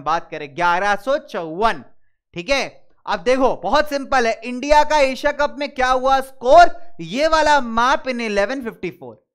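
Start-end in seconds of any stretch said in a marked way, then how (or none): 4.4-9.3 loud, punchy recitation with SCORE lifted; raised, emphatic catchphrase delivery; memory mnemonic. Shown as a demonstration. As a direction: drill it like a rhyme for remembering dates. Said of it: "ऐसे याद करते हैं dates".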